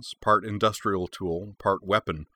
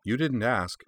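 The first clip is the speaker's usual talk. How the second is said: cheerful; 4 semitones higher, slower than usual. Acted. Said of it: "Lindsay observed cheerfully".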